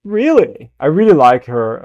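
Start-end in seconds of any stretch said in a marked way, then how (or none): 0.0-0.7 echoing Hela. Retold or imitated. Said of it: "her pronunciation of some words".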